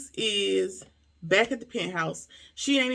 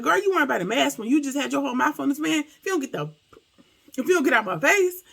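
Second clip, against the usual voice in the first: acted-out indignant outburst, higher pitched; 5 semitones higher, 4 dB louder, faster than usual. Andre to Brittany over the mask, mock indignant. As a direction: retell it as a louder, fed-up retort.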